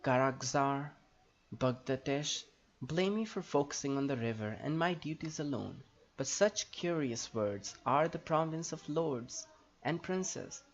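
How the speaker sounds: lightly voiced, formal elf helper; in-character dialogue reading. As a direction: read it like a stately fantasy character, lilting. Reads Nembadeth's game dialogue in character.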